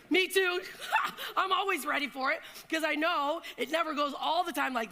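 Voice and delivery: a speaker laughing with her audience. Real, not acted. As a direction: laugh along with the crowd. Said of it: "laughing with audience".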